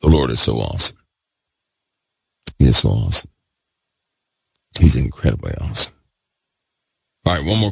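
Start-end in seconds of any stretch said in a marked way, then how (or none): 0.0-5.9 loud, worked up. Real, not acted. Preacher caught up in praise, loud and worked up. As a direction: lower pitched, louder praise. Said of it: "I'm all loud, worked up, excited".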